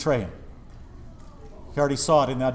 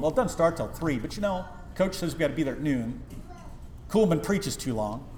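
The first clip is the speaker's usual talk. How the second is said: excuse-making churchgoer; 4 semitones higher than usual. Retold or imitated.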